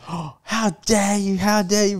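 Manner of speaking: hammed-up affronted protest; indignant wife.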